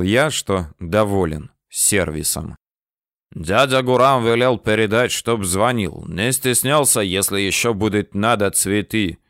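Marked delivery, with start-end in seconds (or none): 3.3-9.2 put-on a light Georgian accent, mildly done; young Georgian delivers his uncle's message, light accent; heavy Georgian accent. Young Georgian passes on his uncle's words, light Georgian accent. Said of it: "с тем же ужасным акцентом".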